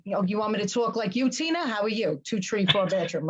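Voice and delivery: lightly put-on Southern voice; a quick mock Southern greeting; Southern accent. Shown as a demonstration. Guest imitating host's speech on request, Southern accent. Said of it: "your Southern voice impression".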